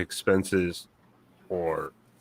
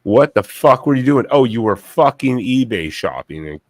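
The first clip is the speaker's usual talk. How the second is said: retold yell, louder and higher; angry yell; 3 semitones higher, 6 dB louder than usual. Scolding the mother over wasted years, a loud angry yell. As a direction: blast her with the question. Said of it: "I'm like".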